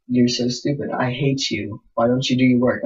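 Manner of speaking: mock scolding. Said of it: "they're like".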